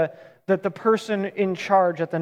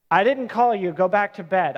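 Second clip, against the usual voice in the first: dad sent back to bed one more time, lightly fed up; weary parent. Retold or imitated. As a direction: sigh it out like a tired parent of a four-year-old. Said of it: "I've been there. I have a four-year-old".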